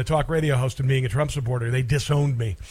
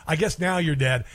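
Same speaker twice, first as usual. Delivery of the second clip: mocking. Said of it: "I made fun of him".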